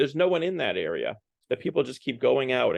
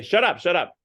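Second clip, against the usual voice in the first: higher-pitched mild mock yell; mock outcry, pitched up; retold yelling; 7 semitones higher, 4 dB louder than usual. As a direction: imitate a bus crowd yelling, only half full force. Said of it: "the people on the bus start yelling".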